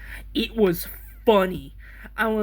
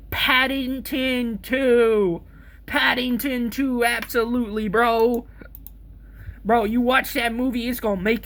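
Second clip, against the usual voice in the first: emphatic; 4 semitones higher, 3 dB louder than usual. Real, not acted. Emphatic answer to friend.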